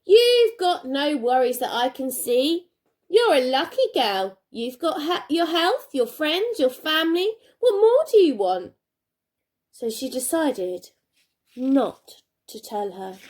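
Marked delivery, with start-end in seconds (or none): 0.1-8.7 mum voice, louder, building higher to the end; exasperated mum. Acted. Mum dismissing her daughter's worries, mildly exasperated. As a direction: scold lightly, like an impatient mum. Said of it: "Mum would probably say".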